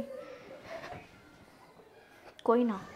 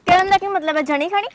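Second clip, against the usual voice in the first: higher, indignant challenge; offended anger; 5 semitones higher than usual. Acted. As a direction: demand he take it back. Offended girlfriend confronts him. (ਬੇਇੱਜ਼ਤੀ ਮਹਿਸੂਸ ਕਰਕੇ ਗੁੱਸਾ)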